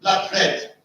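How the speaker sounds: BLOOD RED with both words weighted equally; spondee example. Shown as a demonstration. Teacher giving a spondee example, both stressed. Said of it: "Both are stressed".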